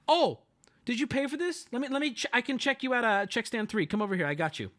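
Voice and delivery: gentle clerk offering to ring him up; non-confrontational. Retold or imitated. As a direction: pitch it up and keep it friendly. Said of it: "wasn't trying to be confrontational".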